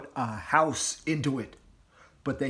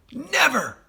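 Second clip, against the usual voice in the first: firm; 13 semitones higher, 7 dB louder than usual. A narrator's reading. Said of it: "said Mister Fox".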